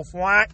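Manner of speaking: comic deflating "fwat"; limp-dick sound effect. Shown as a demonstration. Comedian voicing a lost erection, as a silly sound effect. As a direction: punch out a silly floppy noise. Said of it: "That's my, that's my sound effect".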